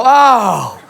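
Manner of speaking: high, drawn-out pretend shock; hammed-up scandalized discovery; mock realization. Everyone reacts to the caught man, mock shocked realization. Mocks public's reaction to the catch.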